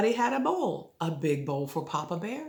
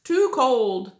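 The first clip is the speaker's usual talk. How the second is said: put-on little girl voice; 6 semitones higher, 6 dB louder than usual. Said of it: "and said".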